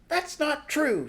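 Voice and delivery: high, loud, slow shout; shouting back. Acted. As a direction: shout the denial back through the door. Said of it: "Charmaine shouted back".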